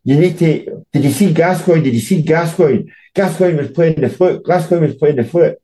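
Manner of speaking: high, urgent retold rant, repeating himself; retold frantic shouting. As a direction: imitate a worked-up editor yelling down the phone. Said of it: "my editor was on the phone screaming and shouting".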